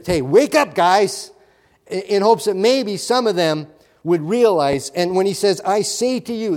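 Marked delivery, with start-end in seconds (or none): 0.0-1.3 mock wake-up call. Voicing a wake-up call to men. 5.7-6.6 "I say to you" declared firmly, higher in pitch; emphatic declaration. Retold or imitated. Preacher quotes Jesus declaring Himself, emphatic "I say to you". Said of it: "that's emphatic".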